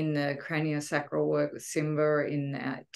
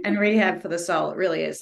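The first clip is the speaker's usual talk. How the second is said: laughing out the words; 2 semitones higher, 8 dB louder than usual. Real, not acted. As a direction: laugh while saying it. Laughing through the remark.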